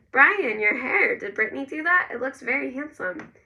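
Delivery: high, exclaiming motherly surprise; delighted surprise. A narrator's reading. Missus Cleland seeing Brian's new haircut, in delighted surprise.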